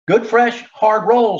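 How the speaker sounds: high vendor's call across the street. A narrator's reading. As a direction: call out to sell bread. Street vendor calling out wares.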